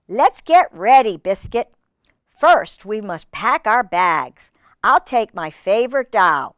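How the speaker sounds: measured, lilting storybook narration; reading to children. Acted. Reader telling children Biscuit's story, in a lilting read-aloud. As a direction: read it clearly to little listeners.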